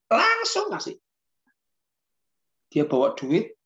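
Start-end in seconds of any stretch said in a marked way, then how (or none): 0.1-1.0 LANGSUNG drawn out very high; penekanan kuat. Retold or imitated. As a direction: leap up high on "Langsung", then drop. Emphasizing immediate giving. ("Langsung" ditekan dengan nada melonjak tinggi)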